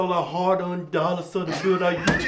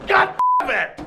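frustrated curse; 11 semitones higher, 4 dB louder than usual. Real, not acted. Frustrated at flubbed take.

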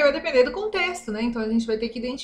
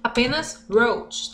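slow teaching; slower than usual. Shown as a demonstration. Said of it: "teaching vocabulary slowly".

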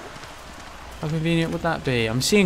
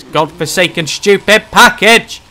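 frustrated ranting; 4 semitones higher, 9 dB louder than usual. Real, not acted. Frustrated search.

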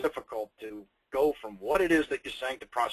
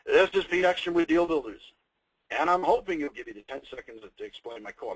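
demo cold-call opener. Shown as a demonstration. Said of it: "And this is how I do it".

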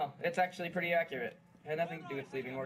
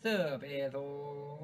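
extremely drawn-out syllables; dragged-out mock slow drawl; slow-motion echo; much slower than usual. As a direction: mimic a slow-mo greeting, stretching each sound. Copies the slow-motion greeting.

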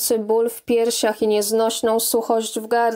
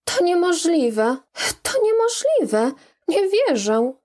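higher, shocked denial from a wife; stunned disbelief; 7 semitones higher than usual. Acted. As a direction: voice leaps much higher in shock. Bogna hears of husband's fraud.

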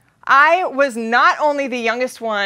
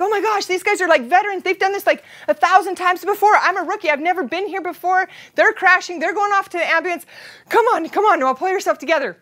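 panicking; 5 semitones higher than usual. Retold or imitated. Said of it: "I'm like".

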